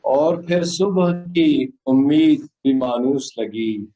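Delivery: solemn, measured poem delivery; stately nazm recitation. Acted. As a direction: recite the nazm slowly to the audience.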